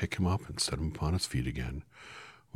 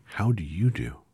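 Scarecrow voice; 6 semitones higher, 9 dB louder than usual. Acted.

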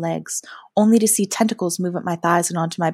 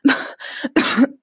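weak, high-pitched coughing; sputtering cough; 6 semitones higher than usual. A narrator's reading. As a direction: cough and catch the breath. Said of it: "started to make me cough".

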